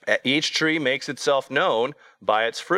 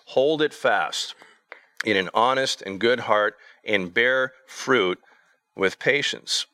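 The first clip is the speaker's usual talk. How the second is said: scripture reading; 3 semitones higher than usual. Acted.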